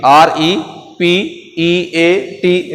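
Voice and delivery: letters drawn out, very slowly; slow spelling out. Shown as a demonstration. Teacher repeats the spelling of repeat, very slowly. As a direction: spell repeat carefully a second time. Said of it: "रिपीट".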